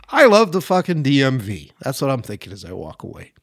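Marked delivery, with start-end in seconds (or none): 0.1-1.7 chuckling. Retold or imitated. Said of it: "Kinda chuckled at myself and went".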